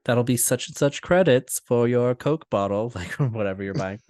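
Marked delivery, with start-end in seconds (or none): 0.1-2.9 in-world cashier. Retold or imitated. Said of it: "they talk like you're on another planet".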